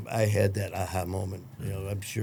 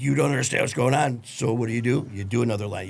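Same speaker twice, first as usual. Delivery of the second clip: heated, accusing retort, imitated; defiant excuse; 5 dB louder, faster than usual. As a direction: act out an addict justifying himself. Voicing addict's excuse to family.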